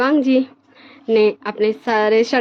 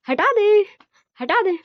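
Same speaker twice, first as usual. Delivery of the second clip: straining effort; 10 semitones higher, slower than usual. Acted. Wang ji struggling to shove Wing off, strained and higher. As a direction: pitch jumps much higher on the strained repeats.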